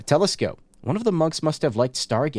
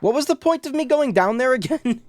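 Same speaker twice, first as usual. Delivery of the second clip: much higher, bewildered laughing question; baffled at yourself, laughing; 9 semitones higher than usual. Real, not acted. Confused about going downstairs.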